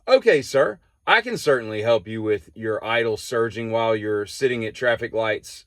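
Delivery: lightly voiced scripted clerk, measured to the last word; mock customer-service formality in complete sentences; over-formal counter clerk. Shown as a demonstration. Counter guy answering a mechanic-shop customer, mildly mocked formal clerk. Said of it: "guy at the counter was like this".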